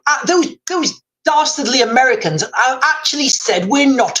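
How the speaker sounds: lightly hammed-up Oxbridge English accent. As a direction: play an Iranian official with a Sandhurst-English accent. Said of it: "my Iranian will have a very English accent".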